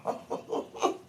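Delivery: breathless giggle through the words; cracking up, barely getting it out; real laughing fit. Real, not acted. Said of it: "I'm crying".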